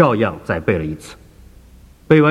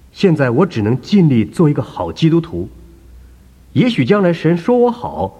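put-on higher, insistent elderly believer; a raised, fretful old lady's voice; earnest old woman; 4 semitones higher than usual. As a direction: plead your case as the humble churchgoer. Woman answers doctor.

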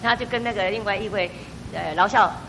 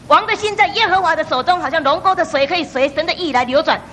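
fervent prayer; 5 semitones higher, 5 dB louder than usual. Acted. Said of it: "神，你去改变她".

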